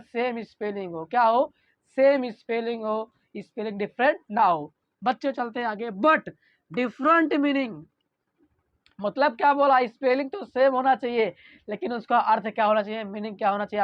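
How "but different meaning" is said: very slow, word by word for notes; slow dictation. Shown as a demonstration. Teacher dictating slowly to the class for notes. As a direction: read it out slowly so students can write. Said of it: "teacher dictates the definition".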